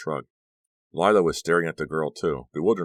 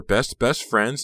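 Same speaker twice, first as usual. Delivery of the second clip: higher, louder, slow and emphatic; gushing emphasis; 7 semitones higher, 6 dB louder, much slower than usual. A narrator's reading. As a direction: treasure each word of "best friends". Honey gushes about the old friendship.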